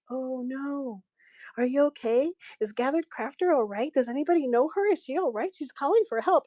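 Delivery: imitating a worried show host; concerned, retold. Host fears a visitor is calling for help, concerned. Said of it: "she got really concerned".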